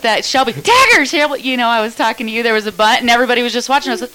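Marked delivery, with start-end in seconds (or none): 0.5-1.4 high, loud re-enacted command; retold yell. Player re-enacting a call to Shelby, yelling. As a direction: call it out like on the field. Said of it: "I'm yelling at the top of my lungs".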